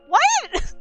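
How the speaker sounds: piercingly high, loud outburst; shocked "what". Real, not acted. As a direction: cry it out in utter disbelief. Shock continues after voice actor reveal.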